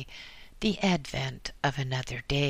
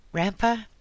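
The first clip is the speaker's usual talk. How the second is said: put-on higher, louder gruff French-Canadian accent; 7 semitones higher, 5 dB louder than usual. A narrator's reading. Policeman at the door, gruff French-Canadian accent. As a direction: bark the name French-Canadian style. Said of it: "asked a gruff French-Canadian voice".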